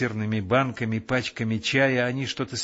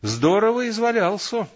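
mildly cross grumble, a touch louder; scolding aunt, half-hearted cross grumble; grumbling; 10 semitones higher, 5 dB louder than usual. A narrator's reading. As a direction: grumble it with mock annoyance. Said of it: "сердито проворчала тётя Христя".

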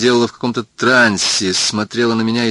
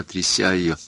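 plain reading voice

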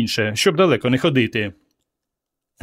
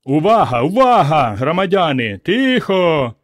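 raised, higher call over a crowd; shouting for attention; 5 semitones higher, 4 dB louder than usual. A narrator's reading. Petro quiets the roaring crowd, shouting for attention. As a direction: call the unruly crowd to order. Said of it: "закричав".

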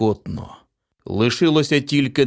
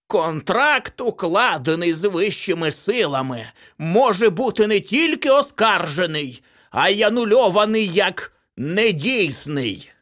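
higher, mocking legal pronouncement; gleeful old accountant; 10 semitones higher than usual. A narrator's reading. Old accountant defying the demon, higher mocking legalese. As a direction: lay down the clause with triumph. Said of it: "зареготав і сказав".

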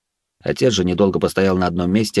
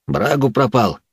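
out of breath; 4 semitones higher, slower than usual. A narrator's reading. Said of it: "растерянно сказал Лори запыханным голосом".

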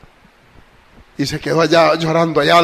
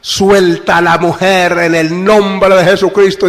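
commanding cry; 4 dB louder, slower than usual. Retold or imitated. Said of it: "ese grito imperativo".

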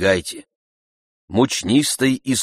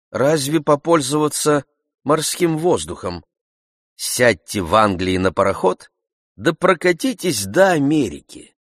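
higher doctor's voice, airily suggesting; doctor musing; 6 semitones higher, 4 dB louder than usual. A narrator's reading. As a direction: offer the sea voyage lightly.

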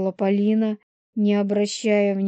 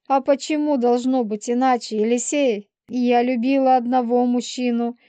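higher-pitched, wounded self-defence; aggrieved she-wolf; 4 semitones higher, 4 dB louder than usual. Acted. Полина tells Елисей she is alone again, aggrieved. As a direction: argue back as the wronged woman, pitched up. Voices Polina defending herself.

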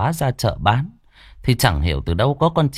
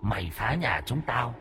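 dopey deep voice; 10 dB quieter than usual. Acted. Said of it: "giọng nói ồm ồm".

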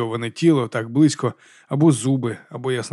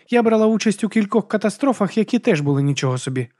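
Baptiste wry; 8 semitones higher than usual. Acted. Baptiste voiced.

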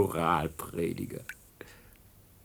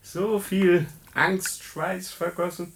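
drawn-out, much higher taunting jeer; mocking sneer; 11 semitones higher, slower than usual. Captor taunts the brain at the execution, mocking. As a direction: savour each word like a cruel joke. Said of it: "Vorliebe für seltsame Späße".

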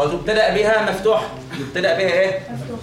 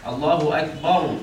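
الله أكبر slow, each sound placed; slow model reading; 3 semitones lower, slower than usual. Shown as a demonstration. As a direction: read الله أكبر slowly with vowels marked. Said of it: "الباء ديت مالها؟". (نطق بطيء واضح)

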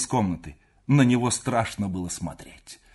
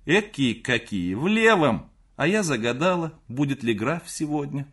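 high, raised mother's voice; calling from room; 5 semitones higher, 5 dB louder than usual. A narrator's reading. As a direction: call out in fussy annoyance, pitched up. Mother calls back from her room. (мать кричит высоким голосом)

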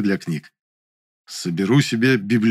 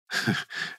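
усмешка; 11 dB quieter than usual. A narrator's reading. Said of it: "усмехнулся я".

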